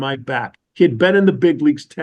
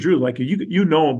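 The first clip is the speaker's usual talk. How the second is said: ordinary delivery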